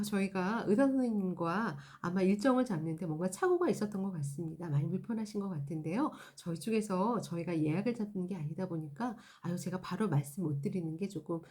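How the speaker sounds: soft, polite apology to a customer; reassuring service voice. Shown as a demonstration. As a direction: gently soothe the upset caller. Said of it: "정도의 응대면 어떨까요". (부드럽고 공손한 상담원 말투)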